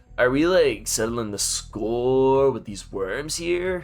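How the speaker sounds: put-on surfer-dude drawl, "score" stretched out. Speaking as Gilgamesh to Kodamine, in Gilgamesh voice. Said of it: "my Gilgamesh voice. It is literally just a frat boy surfer dude".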